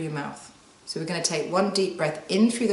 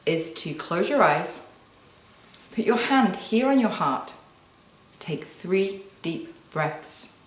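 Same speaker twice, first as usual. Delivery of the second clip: calm guiding voice; slower than usual. Shown as a demonstration. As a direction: slowly guide them into stillness. Guiding a calming breathing exercise.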